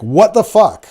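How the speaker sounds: high, loud mock outrage; imitating an appalled what the fuck; shocked reaction. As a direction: blurt it like you can't believe what you just saw. Recipient reacts to a shocking pic.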